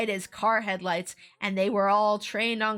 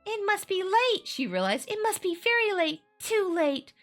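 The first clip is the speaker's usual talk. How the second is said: a hint of despairing girl; 10 semitones higher than usual. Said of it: "words flashed into her mind".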